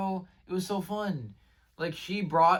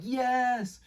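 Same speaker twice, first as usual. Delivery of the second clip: retold cheer; 10 semitones higher than usual. Retold cheer on finding friend.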